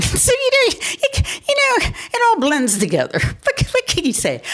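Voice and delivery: words squeezed out through laughter; breaking into laughter mid-sentence; laughing. Real, not acted.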